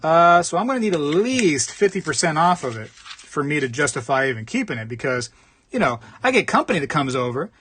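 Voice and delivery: angle for a discount, mock fussy; scheming buyer. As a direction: buyer demanding a refund, lightly voiced. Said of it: "the person's like".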